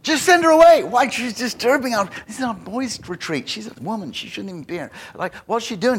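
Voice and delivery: high, loud indignant protest fading to grumbling; indignant disciples. Acted. Preacher voicing disciples who want the woman sent away, indignant. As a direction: shoo the woman away, outraged then muttering. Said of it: "And the disciples go".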